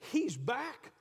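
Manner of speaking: excited. Acted. Mary realizing Jesus is back, excited outburst. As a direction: realization bursting out of her.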